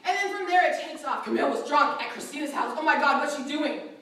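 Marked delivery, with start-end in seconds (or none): 1.2-3.9 louder, scandalised gossip; punched-up gossip. Retold or imitated. Gossiper spreading the rumour further, scandalised and louder. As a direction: make it juicier, with a punch. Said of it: "let's give it a punch this time".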